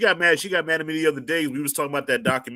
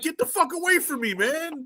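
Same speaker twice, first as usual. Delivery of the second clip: mock exasperated brush-off. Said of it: "I'm like".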